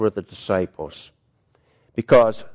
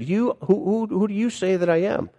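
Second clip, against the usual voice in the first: Jesus's question; 10 semitones higher, faster than usual. Retold or imitated. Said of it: "He said".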